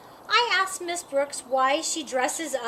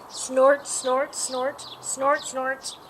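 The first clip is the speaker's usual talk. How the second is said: ogre snorts; 3 semitones lower, slower than usual. Acted. Ogre snorts, girl imitates.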